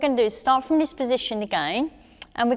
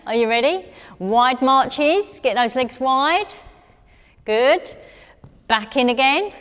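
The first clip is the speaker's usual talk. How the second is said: loud upbeat coaching calls; energetic coach calls; 2 semitones higher, 6 dB louder than usual. Real, not acted. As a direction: call it out to the class. Coach calling out wide marches.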